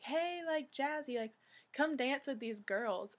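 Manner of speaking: a high call of "hey, like, Jazzy". Retold or imitated. Woman calling the producer over, high and bright. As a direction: hail him from across the street.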